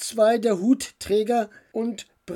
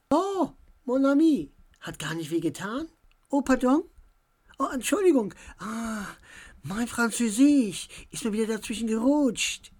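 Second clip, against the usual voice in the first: higher, lightly voiced playful French girl; 5 semitones higher than usual. A narrator's reading. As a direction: play the girl who slips into French.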